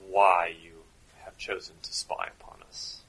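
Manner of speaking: a very bad German accent, interrogating a spy. German officer questions Doctor Watson in a bad German accent. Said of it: "doing a very bad German accent".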